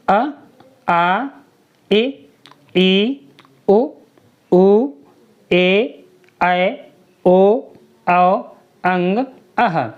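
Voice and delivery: अ, आ, इ, ई one by one, each separate with a rising end; स्वरों का उच्चारण. Shown as a demonstration. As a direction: recite the vowels from अ to अह like a teacher, pausing after each. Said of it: "आ से अंग तक होते हैं स्वर". (स्वर अलग-अलग बोलकर सिखाना)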